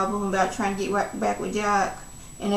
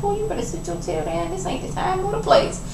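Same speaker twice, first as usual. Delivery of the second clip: mock stern mother, then a sudden high squeak; scolding church mother; 11 semitones higher than usual. Mama D telling Ernest to sit down, hammed-up stern scold. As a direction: hush him like a strict church mama.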